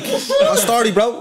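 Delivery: a light take on a cheery Dublin lad's hello, the "Oh" swooping up high; mock-friendly shop-lad greeting, lightly voiced; imitating the Tesco lad. Imitating the lad who served him in Tesco, a light cheery greeting. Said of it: "see the way he was just like".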